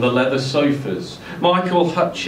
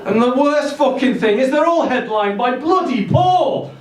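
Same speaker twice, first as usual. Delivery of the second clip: put-on a raised, higher-pitched Scouse rant, Liverpool accent held throughout; 10 semitones higher than usual. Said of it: "into a nasal scouse".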